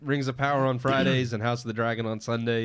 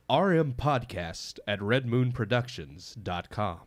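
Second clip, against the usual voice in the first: phone voice. Shown as a demonstration. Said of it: "that's my phone voice from work".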